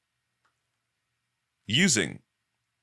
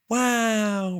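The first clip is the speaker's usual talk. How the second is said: high, louder delighted wow; open wow; 14 semitones higher, 4 dB louder than usual. Shown as a demonstration. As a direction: marvel openly. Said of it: "versus, like".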